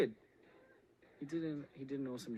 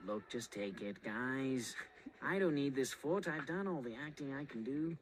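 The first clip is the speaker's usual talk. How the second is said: lightly voiced jaded actor; Kerry. Actor telling the guys to take his foot, lightly impersonated. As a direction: wave them off in a light impersonation. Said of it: "That was my Kerry impersonation".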